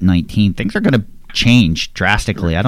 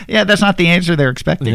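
high-pitched, laughing through the words; amused reply riding on a laugh; 13 semitones higher, 3 dB louder than usual. Real, not acted. Host reacts to gardener's unexpected answer, laughing.

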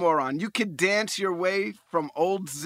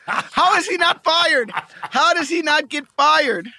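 high, loud, slow, laughing through it; real laughing incredulity; laughing disbelief; 7 semitones higher, 7 dB louder than usual. Real, not acted. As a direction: laugh out the outrage, slowly.

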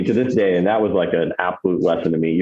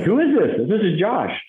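imitating caller; 12 semitones higher than usual. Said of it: "I'm like".

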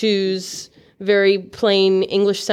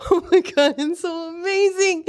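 higher, giggly raving; gushing delight; 6 semitones higher than usual. Acted. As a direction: gush over a treat. Character gushes over slushy drink.

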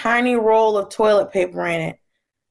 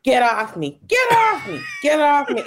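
playful scuffle; 5 semitones higher than usual. Retold or imitated. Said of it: "just kinda slowly".

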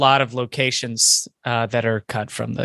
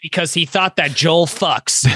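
movie trailer voice; 4 semitones higher than usual. Acted. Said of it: "trailer voice there".

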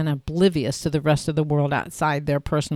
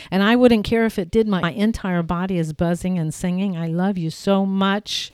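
excited joy; 3 semitones higher than usual. Acted. Excited joyful yes.

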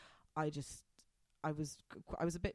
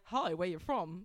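badly attempted Australian accent; failed Australian accent; slower than usual. Guy at a bar greeting a supposed fellow Australian, failed Australian accent. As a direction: try an Australian accent and miss. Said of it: "That's not Australian. Sorry, can't do it".

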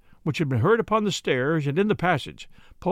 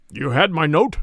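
deep harsh voice; 5 dB louder than usual. A narrator's reading. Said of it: "with a deep, harsh voice".

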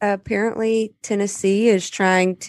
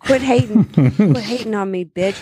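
mock brag; 2 semitones higher, 4 dB louder than usual. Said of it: "when people are like".

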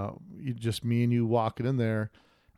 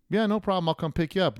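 mock eager reply; 6 semitones higher than usual. Retold own eager reply.

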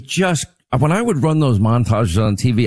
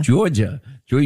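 put-on "Georgia" parroted in a New York accent; mock New York accent. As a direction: tease with a New Yorker's "Georgia". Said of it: "the way you say that".

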